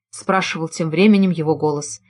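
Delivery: plain reading voice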